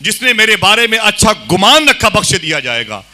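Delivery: high, loud preaching, falling at the close; rousing proclamation. Acted. Preacher quoting his sheikh's promise to followers, rousing proclamation. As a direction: proclaim it to stir the crowd.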